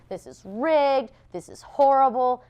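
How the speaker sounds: high, slow, hammed-up whine; mock complaint. To her assistant, a mock whine about the result. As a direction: drag out the fake indignation. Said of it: "I was like".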